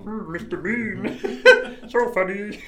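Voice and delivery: high, loud, drawn-out mock Bean; audience imitating Bean. Everyone laughing at Mister Bean, mock high and drawn-out. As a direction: stretch the name out high and silly. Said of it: "everyone was like".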